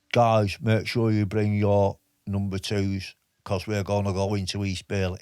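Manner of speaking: a PTI giving orders to the lads in a shaky put-on Liverpool accent; the speaker in a bad Liverpool accent. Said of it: "a Liverpool accent".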